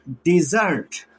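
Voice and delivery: डिजर्ट with the weight on its second syllable; teacher's demo of डिजर्ट, stressed at the end. Shown as a demonstration. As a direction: lean on the last syllable of डिजर्ट. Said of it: "second one syllable को मैंने stress किया".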